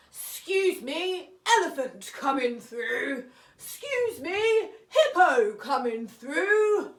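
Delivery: bossy, self-important pushing-through voice; pushy big animals. Acted. Elephant shoving past small animals, bossy and loud. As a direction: barge past the little animals, loud and proud.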